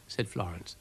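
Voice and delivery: usual speaking voice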